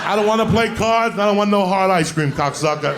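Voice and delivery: high, loud cocky refusal; loud defiant kid. Retold or imitated. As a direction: tell them off like a cheeky altar boy. Kid telling off the nuns.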